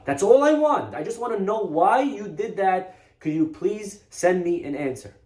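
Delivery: imitated grieving plea; pleading father. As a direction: beg God for an answer.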